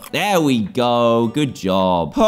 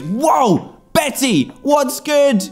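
high, bright hello to a pet; much higher excited whoa; excited greeting; 11 semitones higher, much slower than usual. Real, not acted. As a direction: greet the penguin with delight. Cheerful greeting to penguin.

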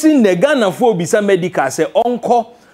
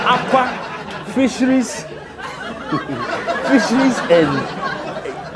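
laughing; 3 semitones higher, 5 dB quieter, slower than usual. Real, not acted. Laughing at the word fisheries.

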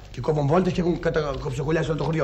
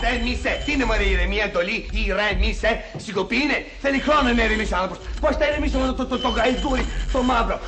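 irritated rant; 4 semitones higher than usual. Acted. Refuses to calm down, ranting.

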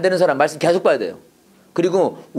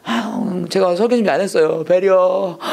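mock lax preacher; slower than usual. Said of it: "설교할 때는 막".

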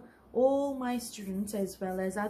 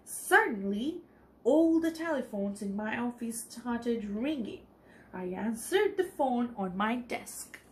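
story narration; 3 dB louder than usual. A narrator's reading. Teacher reading a storybook aloud to the children, clear and lively.

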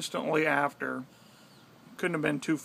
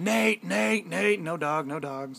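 calling the dog; 2 semitones higher, slower than usual. Retold or imitated. Owner yelling for his lost dog on mountain, searching call. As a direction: call out across the mountain for him. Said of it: "we start yelling".

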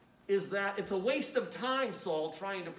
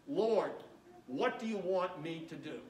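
humble; 3 semitones lower than usual. Acted. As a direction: ask humbly, surrendering. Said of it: "notice his humility".

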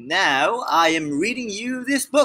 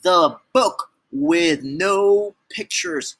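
dramatic reveal; slower than usual. Acted.

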